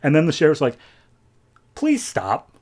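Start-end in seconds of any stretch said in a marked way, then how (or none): 1.8-2.5 pleading sheriff. Retold or imitated. Sheriff pleads to stop fight.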